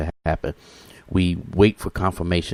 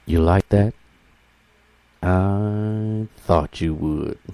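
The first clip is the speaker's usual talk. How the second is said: lightly voiced radio DJ, slow drawn-out tease; Larry Tinsley impression; slower than usual. Radio host teasing listeners after a good song, slow light DJ drawl. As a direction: savor each word like a DJ after a hit. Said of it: "he says it like this".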